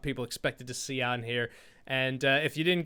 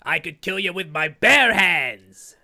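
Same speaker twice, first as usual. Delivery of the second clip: mock menacing threat; 7 dB louder than usual. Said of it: "he's doing the action of a bear's claws".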